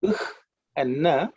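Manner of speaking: "Ukh" as a breathy h sound, then "na"; "Ukh" and "na" as two distinct consonant sounds; letters sounded separately. Shown as a demonstration. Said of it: "same thing with this".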